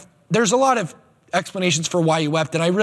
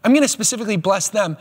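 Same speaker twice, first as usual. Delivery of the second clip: Jesus deciding to bless the poor, excited; eager Jesus; 4 semitones higher than usual. Retold or imitated. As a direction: announce it with a lift of excitement. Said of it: "if you're Jesus and you see the poor, you say".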